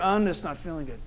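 a sick friend barely getting the words out; weak sick murmur. Retold or imitated. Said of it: "he's like, bent over".

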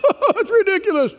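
high, pouting scoff; scoffing mockery. Preacher voices the Athenians scoffing at the resurrection, high and mocking. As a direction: sneer at the good news like the mockers. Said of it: "means to stick out the lip".

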